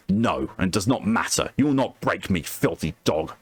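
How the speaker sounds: lightly voiced defiant captive; defiant prisoner of war. Prisoner defying his interrogator, lightly acted contempt. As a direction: refuse to yield, with understated contempt.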